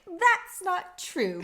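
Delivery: put-on high, slowed, eager kid butting in. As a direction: squeak it out like a kid. Cody butts in, quoted.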